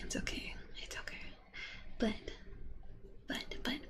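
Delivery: fading to a whisper; half-whispered reassurance. Real, not acted. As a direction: breathe the words out, trailing off. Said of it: "fades to whisper".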